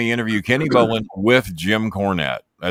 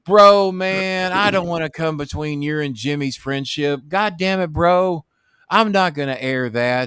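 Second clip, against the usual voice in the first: much higher, slow, amazed put-on voice; voicing Russo; 9 semitones higher than usual. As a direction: stretch it out like a thrilled host. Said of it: "Russo answers".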